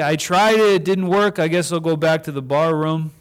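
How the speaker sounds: high, loud mock whine of giving up; hammed-up shrug of a quitter; whiny quitter. Pastor mocking someone returning to the bar, whiny. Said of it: "Or we could say".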